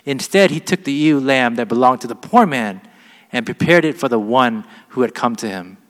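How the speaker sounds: measured Bible reading to the congregation; scripture reading. Acted. Pastor reads Nathan's rebuke of David aloud, measured scripture reading. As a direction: read the passage out clearly and deliberately.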